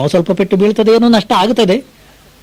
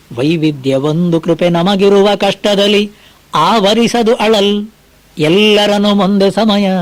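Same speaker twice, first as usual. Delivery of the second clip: slow, measured verse chanting; poem recitation; slower than usual. Acted. Preacher reciting Mankutimmana Kagga to listeners, slow recitation. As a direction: lay out each line of the verse slowly.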